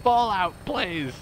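high-pitched playful begging; high pleading. Real, not acted. Gamer begging a frozen game to carry on, pleading.

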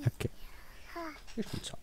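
whispered softly under the breath; a soft whispered announcement. Real, not acted. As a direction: hush it so the sleeper stays asleep. Story time while Sim sleeps.

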